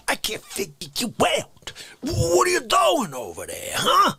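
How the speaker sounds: wailing rant. Acted. Performed bit.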